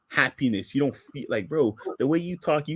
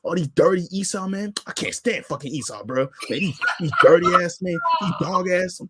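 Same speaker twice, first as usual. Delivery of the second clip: a lightly voiced hammed-up street preacher; lightly mocking a zealous commenter; mock zealot rant. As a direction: sneer at Esau like a zealot. Mocking zealots insulting Esau.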